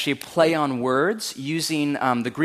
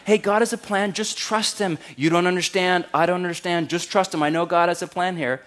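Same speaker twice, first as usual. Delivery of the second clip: mock pious reassurer; 5 semitones higher than usual. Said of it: "that's not what he said".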